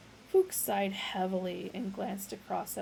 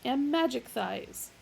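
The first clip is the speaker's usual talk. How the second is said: grand announcement; 4 semitones higher, 3 dB louder than usual. Acted. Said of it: "announced the older one".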